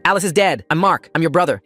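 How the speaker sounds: high, loud desperate yell. Acted. Mark yelling at his brother to stop. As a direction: yell the truth at him, panicked. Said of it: "while I yelled".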